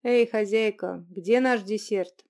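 slow loud call across the room. Acted. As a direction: call to the kitchen. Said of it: "громко выкрикнул".

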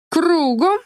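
резкая строевая команда, повыше и погромче; отчеканить как на плацу; чеканная команда. Acted. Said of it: "отчеканила Альбина". (Альбина командует Мише: строевая команда «Кругом!»)

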